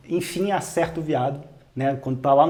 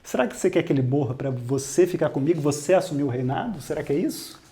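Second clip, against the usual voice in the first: softer, lower accusing voice; 3 semitones lower, 5 dB quieter than usual. Retold or imitated. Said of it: "ela abaixa o nível". (acusação em voz baixa, mais suave e mais grave)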